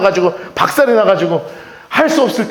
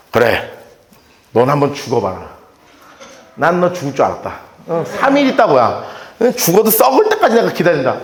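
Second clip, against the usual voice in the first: low, cold taunting voice; hammed-up sneer at the dying; mock cold Jesus; 8 semitones lower than usual. Pastor voices a heartless Jesus to the congregation, lower taunting voice.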